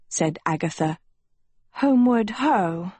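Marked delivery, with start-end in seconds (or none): 1.7-2.9 put-on mild girlish sulk, pitched up; higher-pitched, sulky reply. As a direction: sulk it out a little. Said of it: "Sophie sulked".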